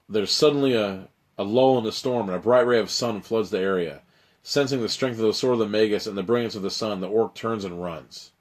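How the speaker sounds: steady dramatic gamebook reading; story narration. A narrator's reading. Reads gamebook narration aloud.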